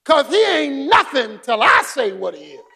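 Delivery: big umpire shutting up the crowd; umpire's shout. Retold or imitated. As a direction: bark it down like the umpire settling everyone. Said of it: "and said".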